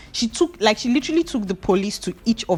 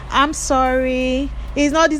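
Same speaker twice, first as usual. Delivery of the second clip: pleading apology; 5 semitones higher, slower than usual. Retold or imitated. Ruth begging the boys.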